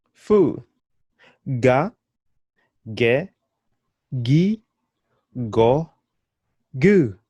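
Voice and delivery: fa fe fi fo fu, ga ge gi go gu, each clipped apart; syllable drill. Shown as a demonstration. Teacher modelling syllables for learners to copy. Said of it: "The next one is the F and A".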